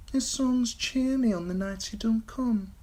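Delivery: put-on high common-spoken young woman. A narrator's reading. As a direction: explain it simply.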